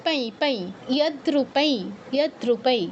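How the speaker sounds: "পাই" ending in a nasal ee; anusvara as i. Shown as a demonstration. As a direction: model "ইয়াদ্রুপাই" with its last syllable gliding to nasal i. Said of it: "পরে ইয় থাকলে ই এর মতো sound হয়".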